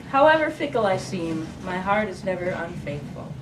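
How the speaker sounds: measured verse, falling at line ends; poem reading. Acted. Poet reading Testimony after its epigraph, measured recital. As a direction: recite it phrase by phrase to an audience.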